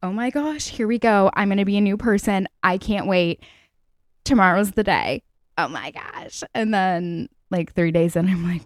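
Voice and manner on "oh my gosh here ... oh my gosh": hushed mock awe at a fresh start; imitating past self. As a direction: breathe it like a starry-eyed dreamer. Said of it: "I used to be like".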